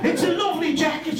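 put-on high, sing-song little old lady; mock old lady. Teller mocks Fanny praising the jacket, high gushing. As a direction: gush like a sweet old shop assistant.

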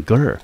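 "ger" said alone as the second syllable; syllable demo. Shown as a demonstration. Teacher splitting anger into syllables, syllable demo. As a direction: sound out "ger" as one separate syllable. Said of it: "G E R念成".

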